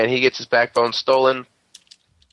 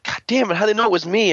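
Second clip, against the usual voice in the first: high, exasperated villain whine; annoyed villain; 10 semitones higher, much faster than usual. Retold or imitated. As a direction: groan it out like a caught crook. Villain caught, annoyed outburst.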